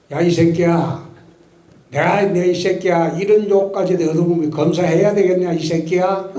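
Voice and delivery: retold angry cursing. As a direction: bark insults back at the boss, half-playing. Retold shouting match with boss.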